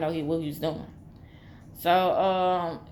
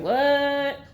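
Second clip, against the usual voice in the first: high, loud surprised; shocked what; 7 semitones higher, 5 dB louder than usual. Retold or imitated. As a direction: gasp it out in shock. Friend shocked.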